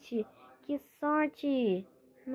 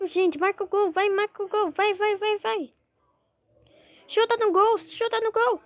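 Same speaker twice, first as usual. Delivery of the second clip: excited cheering; 7 semitones higher, faster than usual. Real, not acted. Cheering on a football game.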